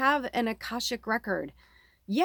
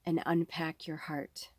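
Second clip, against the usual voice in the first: breathy unvoiced whisper; 5 semitones lower, 9 dB quieter than usual. Reader closing the card message in a whisper. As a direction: breathe the words out softly.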